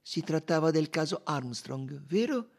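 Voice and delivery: high but unforced questioning; measured detective's question; calm. A narrator's reading. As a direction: ask it evenly, without pushing. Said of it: "disse in tono pacato Poirot".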